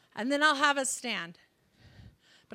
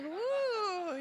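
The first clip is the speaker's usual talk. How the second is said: laughing woo; 6 semitones higher, 4 dB quieter than usual. Retold or imitated. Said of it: "you're not like".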